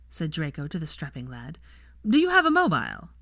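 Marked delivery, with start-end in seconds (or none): 2.1-3.1 louder, higher call across the lawn. A narrator's reading. Draco calling across to the gardener, loud. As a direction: hail him from a distance.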